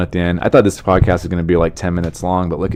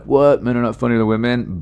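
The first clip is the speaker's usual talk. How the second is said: surprised; 5 semitones higher than usual. Pretend. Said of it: "I'd be like".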